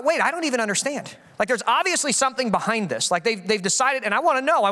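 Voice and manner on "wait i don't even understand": musing to himself; dawning realization. Retold or imitated. And then I thought.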